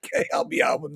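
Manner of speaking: very high squeaky chipmunk voice; Alvin the chipmunk. Acted. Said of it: "Alvin, I'm gonna go with Alvin".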